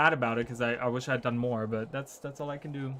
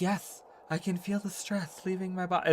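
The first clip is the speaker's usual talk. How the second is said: higher-pitched, playful reenacted agreement; mock entranced reply; 5 semitones higher than usual. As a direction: answer the ASMR host as if under their spell. Acts out own entranced reply to host.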